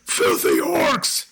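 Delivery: slow gruff voice from behind a door; deep voice. Acted. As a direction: growl it slowly like a hostile stranger. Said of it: "a deep voice go".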